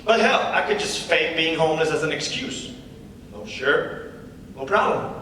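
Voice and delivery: lightly voiced comedy-club patter; stand-up comic. The comic opening his set to the crowd, casual comic patter. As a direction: work the crowd with an easy opener.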